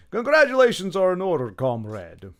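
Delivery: mock Russian comrade accent. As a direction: congratulate grandly in a put-on Russian accent. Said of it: "This is my Russian accent".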